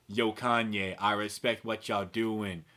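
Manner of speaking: slow, husky street-guy drawl; sultry voice. Retold or imitated. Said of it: "You're a very sultry voice".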